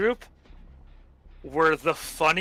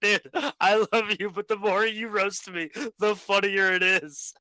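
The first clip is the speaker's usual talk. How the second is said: higher voice breaking into laughter; laughing; 5 semitones higher than usual. Retold or imitated. Teen Screw laughing back at angry teammate. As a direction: plead through giggles. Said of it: "And I'm just like".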